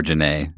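Janae ending in a stressed "nay"; alternative pronunciation. Shown as a demonstration. Co-host trying a doubtful third version, Janae ending in "nay". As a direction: stretch the name into Janae, rhyming with day. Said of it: "I don't think that that's right".

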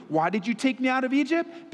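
high, put-on complainer's question; mocking complaint. Preacher mimicking Israelites blaming Moses, mocking complaint. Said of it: "They're not asking it in a nice way".

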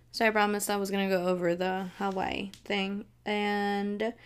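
ordinary talk

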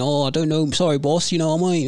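lightly put-on straight English accent. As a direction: slip into straight English, apologizing to the boss. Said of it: "he starts speaking straight English".

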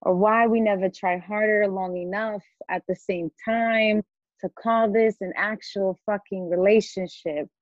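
measured spoken-word reading of her own poem; spoken-word poem, deliberate and searching. Acted. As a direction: read it line by line with pauses and weight. Reads her poem aloud.

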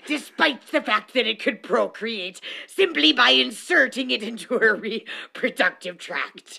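hammy pirate narrating; cartoon pirate, one eye shut. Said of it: "Do you like my pirate voice?".

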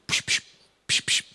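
high, loud hammed-up magic healing noises, psch psch; mock healing prayer. Preacher mocking his naive picture of the early church, hammed up. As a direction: send out quick zaps of pretend healing power.

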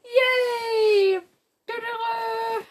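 high, loud, bubbly greeting; excited intro. Real, not acted. Youtuber greeting her viewers, excited and loud. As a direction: hype up the viewers at the start.

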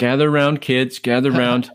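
put-on high, playful storyteller calling kids; hushed creepy legend telling. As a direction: call the kids over for a story. Mock bedtime story opener.

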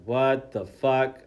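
slow, loud mock bafflement; shocked disbelief. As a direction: drag out each word in retold shock. Retelling shocked reaction.

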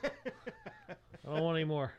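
high, loud, slow pleading; mock fed-up protest. Viewer sick of the reality show, mock protest. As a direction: drag out a comic plea to stop.

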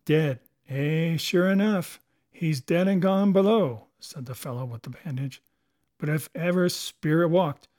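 fearful pirate; uneasy pirate. Acted. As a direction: talk of ghosts like a superstitious sailor. Bandaged pirate on Flint's ghost.

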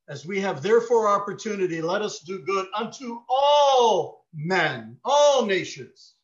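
slow, loud preached verse; forceful preaching. Real, not acted. Preacher calling the congregation to do good, slow loud proclamation. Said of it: "preaching scripture at full force".

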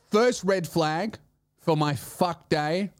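normal talking voice

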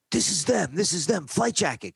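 high, pushy insistence; volatile cop. Retold or imitated. Hothead cop insisting to his partner, high and loud.

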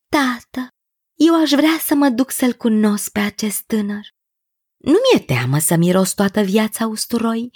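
earnest daughter, pitch often lifted; lightly voiced pleading princess. Princess begging her father to let her go, lightly pleading.

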